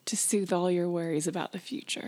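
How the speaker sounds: a hint of a hushed mystic; fortune teller voice. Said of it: "Madam Eight Ball Prediction".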